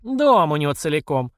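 mild mimicking of the old man; mocking mimicry. Lyudmila Sergeevna mimics the timid old man, a light mock. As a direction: parrot him back mockingly. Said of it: "передразнила бедолагу".

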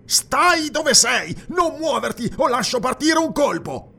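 high, loud warning; shouted threat. A narrator's reading. Guard aiming a crossbow at the intruder, high shouted threat. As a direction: hold him off with a high-pitched shout.

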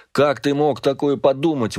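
high, pained outcry; exclaiming. A narrator's reading. Father exclaims to his son in disbelief. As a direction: cry it out in disbelief. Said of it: "воскликнул он".

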